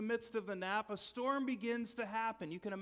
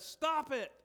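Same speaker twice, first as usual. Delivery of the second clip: higher, louder sharp command; commanding rebuke; 6 semitones higher, 5 dB louder than usual. Retold or imitated. Jesus rebukes the raging storm, commanding shout. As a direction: order the storm to stop. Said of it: "Jesus just stood up and said".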